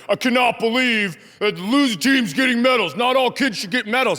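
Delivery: hammed-up indignant complaint; mock an outraged sports dad; pissed-off rant. Angry man at kids' tournament griping about medals, mock outrage. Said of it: "And this guy was pissed".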